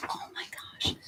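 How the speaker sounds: breathy, voiceless yelp of pain; real pain. Real, not acted. Vlogger seized by a foot cramp, pained gasp. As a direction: gasp it out through a sudden cramp.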